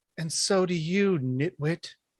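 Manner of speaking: voice calling out. Voicing a character who answers from the fog: voice from the fog. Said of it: "the voice from the fog says".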